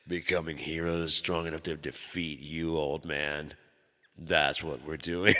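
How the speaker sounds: slow, hammed-up heroic boast; slow defiant kid. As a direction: announce it like a tiny superhero. Kid defying dad.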